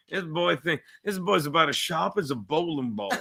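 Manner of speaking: a hint of a Southern rooster; Southern accent. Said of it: "Why'd you do a Southern accent?".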